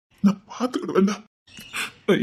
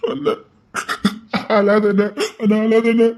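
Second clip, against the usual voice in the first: tearful pleading; 3 dB louder than usual. Acted. Begging brother not to cry.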